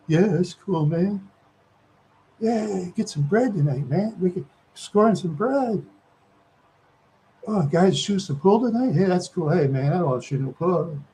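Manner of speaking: easygoing put-on hustler chatter; imitating street talk. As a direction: imitate the guys you used to hang with. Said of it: "people that talk like that".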